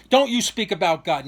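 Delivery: half-strength angry order; toned-down angry cop. Retold or imitated. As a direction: imitate a cop's reprimand without full force. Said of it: "not being as passionate and emotional".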